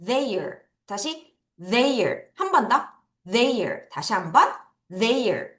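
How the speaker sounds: "Their" with the tongue between the teeth, soft; careful th. Shown as a demonstration. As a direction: model "Their" carefully for repeating. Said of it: "T H 발음 주의해서". (th 발음 주의해서 "Their")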